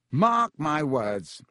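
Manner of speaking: slow, self-important drawl; lightly voiced vain professor; pompous Lockhart.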